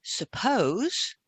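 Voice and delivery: breathy whisper, then a long pause; whispered suppose. Shown as a demonstration. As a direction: let the word Suppose. hang in a whisper. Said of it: "you're pausing again".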